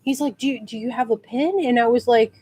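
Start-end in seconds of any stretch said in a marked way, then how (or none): 0.4-1.6 soft mock request. Actor's first, tentative request retold.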